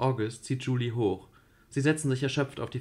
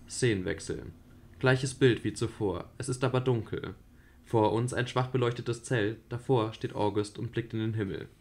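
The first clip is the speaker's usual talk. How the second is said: radio play narration. A narrator's reading. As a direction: set the scene calmly. Reads stage directions. (ruhige Erzählerstimme)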